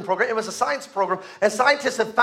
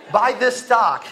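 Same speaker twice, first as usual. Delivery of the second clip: mock urgent warning; 2 semitones higher, 4 dB louder, slower than usual. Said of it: "go back to your younger self and say".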